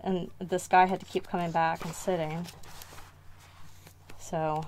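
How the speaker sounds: breathless, pausing for air; out of breath. Real, not acted. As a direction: talk while short of breath. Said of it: "whew, I'm out of breath".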